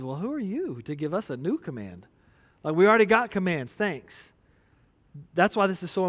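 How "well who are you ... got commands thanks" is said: a lightly voiced sarcastic disciple; hint of sarcasm; mock indignant disciples. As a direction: scoff a little, understated. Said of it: "first thing they thought was".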